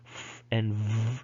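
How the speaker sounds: long hissed F, then buzzing v; demonstrating speech sounds. Shown as a demonstration. Teacher contrasting voiceless and voiced sounds, slow demonstration. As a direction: hold F and v slowly as bare sounds. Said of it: "how you know if it's voiced".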